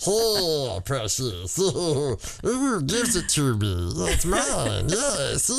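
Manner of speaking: creepy Smeagol imitation, slow and hissing. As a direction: coo it like Smeagol over his treasure. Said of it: "that's my goblin voice".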